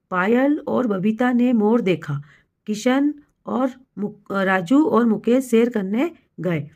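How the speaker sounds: slow, measured sentence dictation; word by word, unhurried. Shown as a demonstration. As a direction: read slowly for children writing it down. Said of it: "यही शब्द जब धीरे-धीरे आप बोलेंगे".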